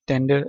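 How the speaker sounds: "टेंडर" with the final R dropped; silent R. Shown as a demonstration. Teacher listing words for mild, "टेंडर" with silent final R. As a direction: end "टेंडर" on a vowel, British style. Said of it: "again, आर silent".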